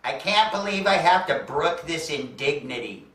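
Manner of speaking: a touch of affronted grandeur; mock offended diva; lightly voiced haughty star. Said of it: "she looks at me and says".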